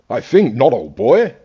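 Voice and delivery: lightly imitated posh English gent; a hint of posh English for the quote; mock posh English refusal. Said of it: "he's a posh English bloke".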